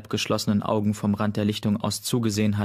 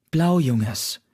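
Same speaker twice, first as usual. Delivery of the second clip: louder call across the camp; 4 semitones higher, 4 dB louder than usual. A narrator's reading. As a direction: call her name from a distance. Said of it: "rief Mondblüte vom Farntunnel". (rufend, lauter über das Lager)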